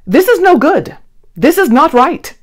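lightly voiced fussing little creature; complaining Ned. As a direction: fret about the too-small bed. Ned complains about his small bed.

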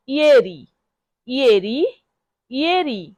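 ইয়েরি as YEH-ree, falling, rising, falling; model pronunciation. Shown as a demonstration. Teacher has learners repeat ইয়েরি, careful model pronunciation. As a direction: sound out "ইয়েরি" as ee-YEH-ree, pausing after each. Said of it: "বারবার শব্দটি উচ্চারণ করব".

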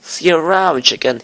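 a hint of a sneering Pokemon bully; mild mock villain sneer; lightly voiced bully taunt. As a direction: toss the insult over the shoulder. Reading game dialogue in voices.

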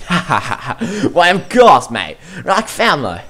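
lightly voiced Aussie accent; Australian accent. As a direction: say it like a friendly Aussie. Voicing Muscular with accent.

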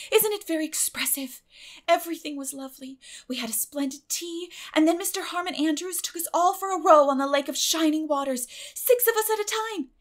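put-on high, quick girlish voice, aggrieved; a child pouring out her reasons; eager girl Anne. Anne recounting the picnic.

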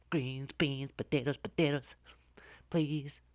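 high whispered chant; superstitious whispered plea. Real, not acted. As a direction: whisper it like a lucky charm.

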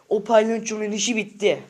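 real angry outburst. Real, not acted. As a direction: raise your voice in real anger. Angry threat against a rival.

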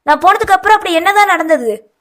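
alarmed brother pressing for answers; shocked asking. A narrator's reading. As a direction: ask as if stunned by the news. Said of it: "அதிர்ச்சியுடன் கேட்க".

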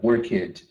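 worked said as two syllables, work it; common learner error. Shown as a demonstration. Teacher demonstrates the Brazilian learner error, slow work it. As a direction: say worked slowly as work it, the typical Brazilian slip. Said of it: "saying things like".

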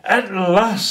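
high joyful penguin cry; excited penguin. Acted. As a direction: cry it out in delight as the little penguin. Dudley delighted.

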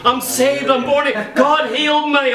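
high-pitched, mild mock shout; retold shouted testimony. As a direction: imitate an excited convert testifying. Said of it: "He's shouting, testifying to everyone".

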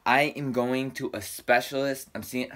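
talking with retainer in; slightly slurred retainer speech. Real, not acted. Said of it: "sorry, I have my retainer in".

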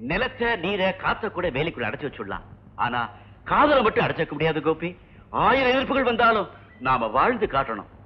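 measured, declaimed lovers' dialogue; acting demonstration. Shown as a demonstration. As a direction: show the actor how to deliver a defiant love line. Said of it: "இப்படி பேசணும்". (நடித்துக் காட்டும் காதல் வசனம்)

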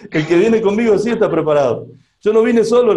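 commanding rebuke. Retold or imitated. Pastor rebuking the demon in Fernando, firm and loud. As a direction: stand your ground against the demon, loud.

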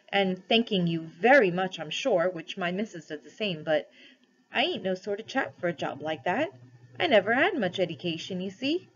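a hint of rustic working man; deferential, homely protest, lightly acted; lightly voiced humble cabby, hesitant. Cabby modestly declines a crown from Aslan, humbly hesitant.

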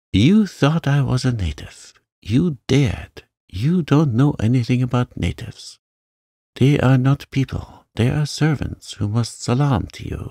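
high, loud raging rant; rage. Acted. Mary rages at the housemaid about natives, high and loud. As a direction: spit it out in humiliated rage. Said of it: "her rage and humiliation".

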